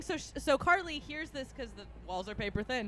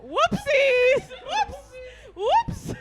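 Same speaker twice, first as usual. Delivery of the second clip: drawn-out squealed whoopsies, far above usual voice; high-pitched oops; 13 semitones higher, 7 dB louder, much slower than usual. Retold or imitated. Friend caught opening the wrong door, high-pitched oops. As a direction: imitate a sheepish, squeaky apology.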